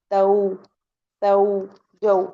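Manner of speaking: "तऊ, तऊ, जऊ" each gliding gently from a into u; separate, carefully sounded au syllables; correct leen reading. Shown as a demonstration. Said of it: "कैसे पढ़ेंगी?".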